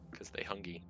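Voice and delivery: soft unvoiced whisper. Real, not acted. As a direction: whisper the joke under breath. Whispered joke.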